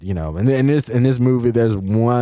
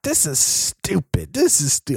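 put-on a failed stab at Benoit Blanc's accent; 5 semitones higher than usual. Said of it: "I can't do his accent".

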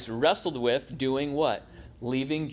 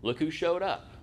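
mock-sarcastic, pitched up; 5 semitones higher than usual. Jews judging Gentile converts, mock sarcastic. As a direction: sneer it with a higher lilt. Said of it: "the Jews would think".

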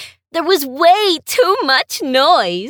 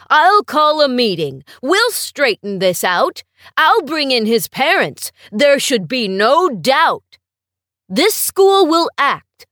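louder, determined principal laying down the law; firm vow; 5 dB louder than usual. Acted. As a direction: speak like a principal who will act. Principal vows firm action.

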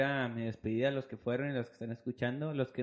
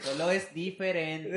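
stifled giggles; 4 semitones higher, slower than usual. Real, not acted. Slow mock-serious line while laughing.

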